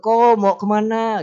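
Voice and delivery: sing-song call across the street; friendly neighbour greeting. Retold or imitated. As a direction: hail a passing man neighbour cheerfully. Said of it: "gitu ya".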